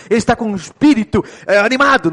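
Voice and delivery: a lively, animated spirit on "animado". Shown as a demonstration. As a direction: say it like someone full of energy. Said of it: "Muita vibração, animado".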